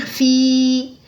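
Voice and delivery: slow stretched fi at a stop; drawn-out fi. Shown as a demonstration. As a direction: hold the final sound long. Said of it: "si je fais un arrêt ici".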